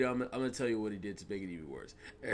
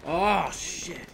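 surprised; 6 semitones higher, 6 dB louder than usual. Real, not acted. Sudden danger in game.

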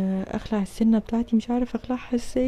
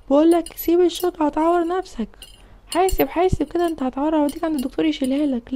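high pitched scolding; angry father; 4 semitones higher than usual. Acted. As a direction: warn him sharply like a scared dad. (أب متعصب بيحذر ابنه)

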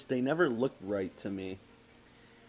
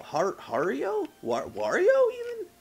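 high squeaky voice; 6 dB louder than usual. Acted. Joking about the Mario picture.

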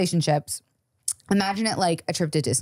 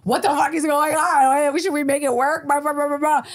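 upset demand; 8 semitones higher than usual. Retold or imitated. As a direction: throw the questions at him in disbelief. Quoting her own upset reply.

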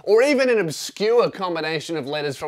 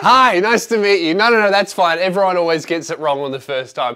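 loud reply; 5 dB louder than usual. Retold or imitated. Mother answering in greeting scene.

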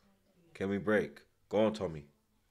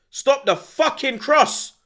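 slow furious demand at the screen; frustrated yell; 6 dB quieter, slower than usual. Real, not acted. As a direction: spell it out at the defenders, furious. Pleading with defenders on TV.

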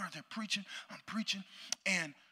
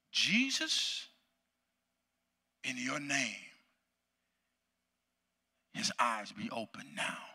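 re-enacted tearful prayer; 5 semitones lower, slower than usual. Preacher praying over a blind man, tearful plea. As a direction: plead low, with long pauses. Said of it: "I just begin to weep".

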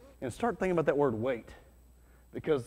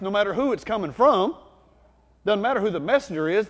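bold preacher shout; 5 semitones higher, 4 dB louder than usual. Pretend. Preacher voicing Spirit-filled confidence.

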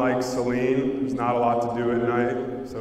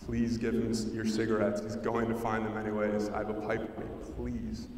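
hushed, urgent plea, half whispered; retold whisper; 9 dB quieter than usual. Teen begging his friend to hand over cigarettes, hushed. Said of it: "I whisper to Mike".

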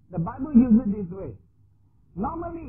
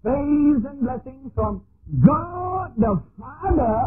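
solemn blessing; 4 semitones higher, 3 dB louder, much slower than usual. Retold or imitated. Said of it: "they usually say".

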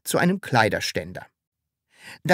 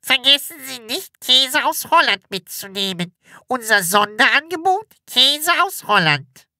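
high, sing-song store announcement; loudspeaker announcement; 12 semitones higher, 4 dB louder than usual. A narrator's reading. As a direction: read it like a PA advert. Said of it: "eine weibliche Stimme sagte".

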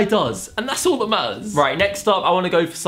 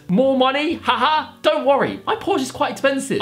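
higher-pitched mock celebrity; haughty pop star; 7 semitones higher than usual. YouTuber reads Harry AI's reply, high haughty voice. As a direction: read it as a star brushing it off.

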